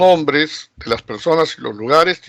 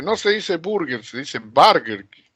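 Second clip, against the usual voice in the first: know-it-all correction; 2 semitones higher than usual. Retold or imitated. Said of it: "alguien que dice".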